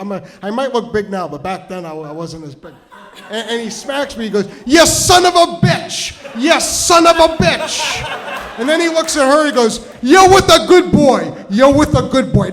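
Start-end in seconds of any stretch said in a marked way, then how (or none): 4.6-8.1 high, loud, drawn-out exclamation; acted old man's excited holler; elated shout. Old man excitedly smacks and greets him. 10.0-12.5 loud, high-pitched endorsement; acted old man's hearty holler; emphatic proclamation. Old man addresses the date loudly.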